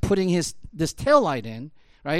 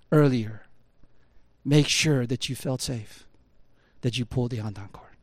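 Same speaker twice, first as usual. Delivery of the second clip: solemn apology; 6 semitones lower, 3 dB quieter than usual. Retold or imitated. Boss continues his apology to worker.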